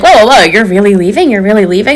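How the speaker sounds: mildly acted disbelief; surprised. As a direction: imitate a date caught off guard. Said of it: "was even more surprised".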